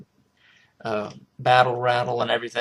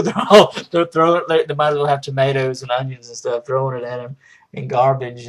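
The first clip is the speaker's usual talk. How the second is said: excited retelling; 3 semitones higher, 7 dB louder than usual. Retold or imitated. Telling of seals taunting Shane, excited and loud. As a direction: gush about the scene.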